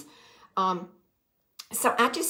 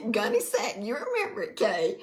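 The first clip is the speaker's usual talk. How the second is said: excited; 4 semitones higher than usual. Real, not acted. Excited to viewer Kay.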